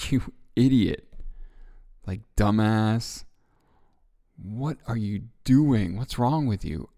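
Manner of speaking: loud, contemptuous berating of yourself; harsh mock scolding. Speaker acting out her inner critic, a loud mock scolding. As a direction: spit out the insults like a cruel inner critic. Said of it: "is it more like this?".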